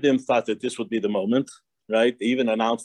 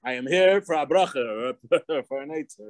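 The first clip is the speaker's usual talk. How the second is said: very bold; 6 semitones higher than usual. Retold or imitated. Visitor refuses to be sent elsewhere, boldly retold. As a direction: call out to the Rebbe, then state it boldly. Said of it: "he told the Rebbe very boldly".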